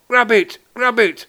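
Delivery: high, loud, urgent command; excited shout. A narrator's reading. Man with bottle lunging for cat, excited shout. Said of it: "a man waving a bottle said".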